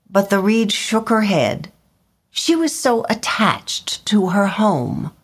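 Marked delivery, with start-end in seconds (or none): 2.3-5.1 whispered. A narrator's reading. Narrator whispering about the reed's attachment. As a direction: breathe the line gently. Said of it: "whispered narration".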